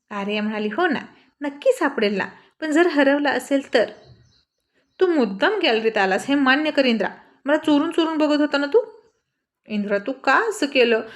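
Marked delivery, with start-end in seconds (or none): 0.7-3.9 high, mocking agreement; sarcastic girl scoffing. Sarcastic retort while angry. 5.0-11.0 louder, higher angry demand; angry girl demanding a confession; accusing. Acted.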